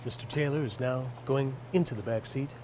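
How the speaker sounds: hushed golf commentator; golf announcer. Acted. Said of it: "I'm speaking like a golf announcer".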